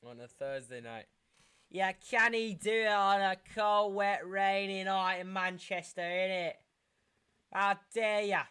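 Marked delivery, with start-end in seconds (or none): 1.7-6.5 lightly mocking British pundit. 7.5-8.4 put-on indignant voice; hammed-up how dare you; mock outrage.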